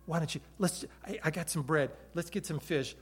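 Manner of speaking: Jesus casually inviting the disciples to breakfast by the shore; friendly invitation. Acted. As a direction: invite your friends over, softly. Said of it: "a personal invitation from Jesus".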